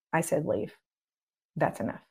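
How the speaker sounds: calm firm command. Shown as a demonstration. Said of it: "I don't change".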